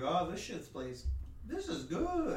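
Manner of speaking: high, soft mock-Italian voice; badly faked Italian accent. Electricians approving the house's wiring, mock Italian accent. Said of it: "Was that your Italian accent?".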